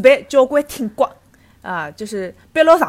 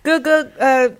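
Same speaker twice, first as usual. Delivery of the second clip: market auntie. Pretend. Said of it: "假装阿姨".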